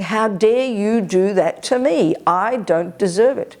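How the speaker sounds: slow, drawn-out mock indignation; aggrieved ego voice. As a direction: act out a wounded, self-pitying ego. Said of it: "It's the voice of ego grasping".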